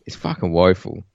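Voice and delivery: croaky from a cold; rough sick throat; hoarse voice. Real, not acted. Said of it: "frog in my throat".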